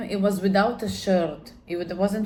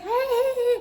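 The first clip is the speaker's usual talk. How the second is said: startled yell. Retold or imitated. Attacker startled, running.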